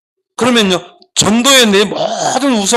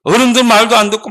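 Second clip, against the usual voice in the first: scolding; 2 semitones higher than usual. Acted. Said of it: "막 책망을 하는 거야".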